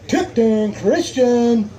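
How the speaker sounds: slow, stretched announcer delivery; drawn-out team call. Real, not acted. Weigh-in emcee calls next team up, drawn-out announcing. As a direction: hold out both words of the name.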